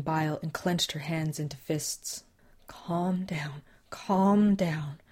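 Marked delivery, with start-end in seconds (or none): 2.7-3.6 whispered mantra. Acted. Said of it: "she repeated the mantra". 3.9-5.0 firmer, louder whisper; whispered mantra. Acted. Susan forcing herself calm after the run, firmer whisper. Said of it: "she repeated the mantra".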